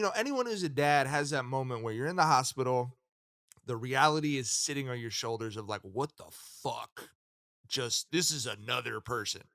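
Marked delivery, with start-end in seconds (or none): 5.8-9.4 retold quiet awe of a stunned new parent; stunned disbelief. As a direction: let it sink in softly, almost to yourself. New dad's stunned reaction, retold.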